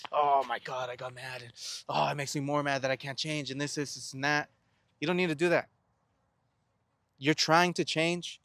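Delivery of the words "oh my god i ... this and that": mock self-berating. Speaker acting out beating himself up over getting mad, mock self-berating. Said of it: "kill yourself over you being mad".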